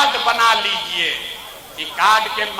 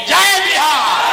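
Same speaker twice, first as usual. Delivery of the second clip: higher, slow and stretched slogan call; rally slogan shout; 4 semitones higher, slower than usual. Real, not acted. Politician leading the Bihar rally crowd, high slow slogan shout. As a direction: pull the crowd into the chant.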